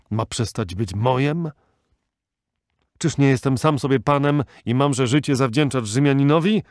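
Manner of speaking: put-on loud, proud furious old chieftain; old Arab sheikh ranting in wounded pride; raging old sheikh. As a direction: rail against Rome, fading to bitter regret. Ilderim's raging tirade.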